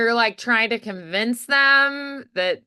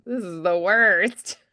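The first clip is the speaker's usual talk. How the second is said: grumpy groan; slower than usual. Shown as a demonstration. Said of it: "they're just like".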